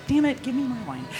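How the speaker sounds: lightly exasperated plea for the glass; mock exasperation. Impatient demand in retold quote.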